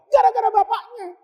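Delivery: high laughing punchline; amused high laugh on the blame. Real, not acted. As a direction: laugh the answer out. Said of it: "laughing punchline".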